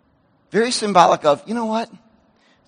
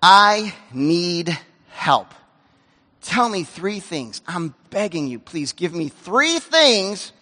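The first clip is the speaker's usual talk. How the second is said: pleading prayer; 4 semitones lower, slower than usual. Retold or imitated. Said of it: "I finally said".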